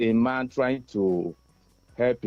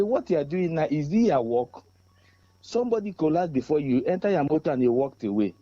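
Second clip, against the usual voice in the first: angry confrontation; 3 semitones higher than usual. Retold or imitated. Confronting police who walked away.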